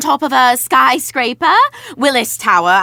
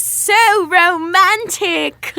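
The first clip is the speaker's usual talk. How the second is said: sarcastic; 7 semitones higher, much slower than usual. Acted. Sarcastic reply about key ring.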